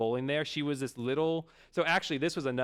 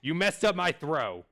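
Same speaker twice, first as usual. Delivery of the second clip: mock angry yell; 4 semitones higher, 4 dB louder than usual. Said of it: "he starts yelling".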